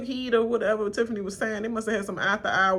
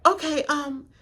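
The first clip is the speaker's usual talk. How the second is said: mock stalling; 8 semitones higher than usual. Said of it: "she was like".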